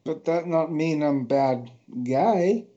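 slow, low movie-villain impression in broken English; Zangief. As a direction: play a slow, heavy-tongued wrestler quoting his line. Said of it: "He looks like Zangief".

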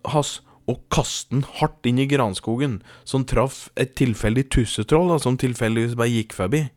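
animated storytelling in a steady measured flow; story narration. A narrator's reading. Podcast host tells listeners a tall tale, storytelling.

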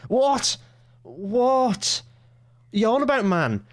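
high-pitched, drawn-out baffled outburst; exasperated disbelief. Real, not acted. Host challenging minister's nonsense, incredulous and frustrated. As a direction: throw each question up high, utterly exasperated. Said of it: "that level of frustration".

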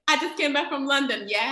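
put-on Nigerian putting on a London accent; badly faked British accent; mock London accent. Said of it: "don't talk like that".

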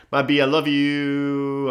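lightly voiced cutesy girl, drawn-out ending; kawaii girl. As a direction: stretch it out like a cute anime girl. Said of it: "a kawaii girl".

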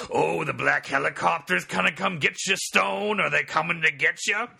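high-pitched mock-paranoid taunt; exaggerated mock alarm, pitched well up; mocking teacher. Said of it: "Munn would be like".

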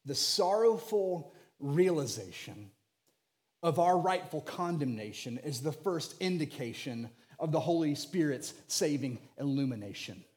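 rhyming preacher phrasing, rolling and grand; preacher cadence. Shown as a demonstration. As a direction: deliver it like a Baptist preacher. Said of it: "to say it the very most Baptist way I can".

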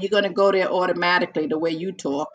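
laughing while teasing. Real, not acted. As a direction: tease him through a laugh.

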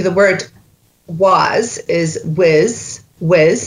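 "was is whiz" said with a Scots "whiz". Shown as a demonstration. Coach demonstrating Scots "was is whiz" to actor. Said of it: "dialect coach demo".

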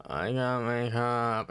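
groggy just woken up, slow; sleepy. Retold or imitated. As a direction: drag it out half asleep. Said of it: "literally barely awake".

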